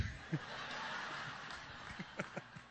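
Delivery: laugh. Real, not acted. Laughs after his own joke.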